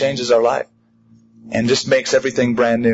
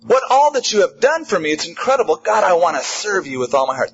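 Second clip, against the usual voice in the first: grateful believer; 4 semitones higher than usual. Retold or imitated. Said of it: "You go".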